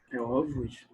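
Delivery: "ovos" with an open stressed ó, AW-voos. Shown as a demonstration. Teacher showing the class the open o of ovos. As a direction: open the first o of "ovos" wide. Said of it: "o som, turma, vai ser aberto".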